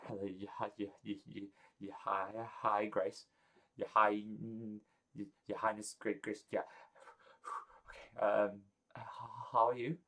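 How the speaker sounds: a lovestruck wizard tripping over every word; flustered Gerald. Acted. Gerald stammers hellos at Grace, soft and flustered.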